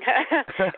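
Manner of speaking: a laugh through tears; embarrassed laugh while crying; tearful laugh. Real, not acted. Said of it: "I'm crying".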